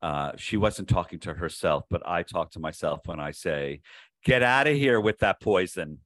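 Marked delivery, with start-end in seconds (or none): 4.2-6.0 put-on New York accent. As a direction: Get outta here with that poison in a New York accent. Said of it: "say it with a New York accent".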